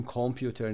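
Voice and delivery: کامپیوتر with a full rounded "kom" first syllable; wrong "kom" pronunciation. Shown as a demonstration. Teacher showing what not to say, wrong "kom" vowel. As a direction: say "kom-pyuter" for کامپیوتر, no schwa.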